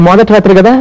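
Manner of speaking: halting, mildly flustered confession; nervous. Acted. Groom admits first-night jitters to his sidekick, nervous. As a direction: hesitate between phrases, unsure of yourself. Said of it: "కంగారుగా ఉంది".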